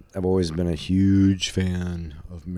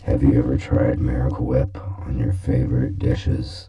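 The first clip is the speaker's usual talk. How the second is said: ad announcer; 6 semitones lower, 4 dB louder than usual. Acted. Mock commercial pitch repeated.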